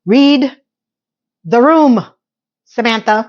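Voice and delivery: loud, sharp rebuke to the screen; scolding the TV. Real, not acted. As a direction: tell her off, voice up on read the room.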